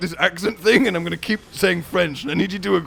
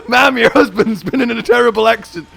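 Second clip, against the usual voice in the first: mock-official news, raised and cracking up; laughing policeman; 4 semitones higher, 3 dB louder than usual. Policeman telling wife about husband, barely holding laughter. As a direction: struggle through the bad news laughing.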